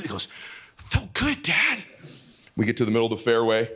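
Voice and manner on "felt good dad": put-on high little-boy reply; kid voice imitation. Son answering dad after a shot, high kid imitation. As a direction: mimic a boy, higher than yourself.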